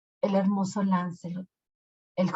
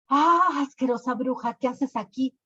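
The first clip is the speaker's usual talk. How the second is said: disgusted anger; 5 semitones higher than usual. Acted. King insults the witch.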